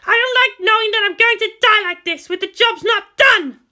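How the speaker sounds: lightly voiced determined commander, urgent; a grim officer pushing through pain; Misato, tense. Narrator voicing the wounded commander to the leaders, urgent.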